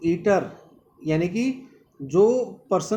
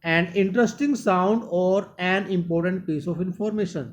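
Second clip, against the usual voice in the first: slow reading; much slower than usual. Shown as a demonstration. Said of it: "teacher reads English definition".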